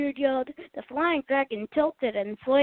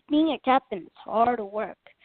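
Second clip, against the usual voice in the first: heavy tired sigh of a captain; weary sigh. Acted. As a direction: sigh it out, worn down. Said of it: "he sighed".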